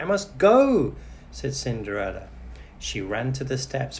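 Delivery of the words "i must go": hurried worry. A narrator's reading. Cinderella hurries off.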